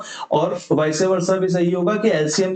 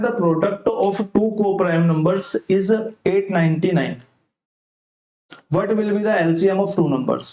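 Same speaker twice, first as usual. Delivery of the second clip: slow, deliberate question read; reading the question aloud; much slower than usual. Acted. Teacher reads the exam question to students, slowly. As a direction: read the problem word by word for students.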